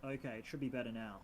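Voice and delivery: barely audible microphone; quiet voice loud hiss. Real, not acted. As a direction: still faint through hiss. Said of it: "you're as quiet as fucking".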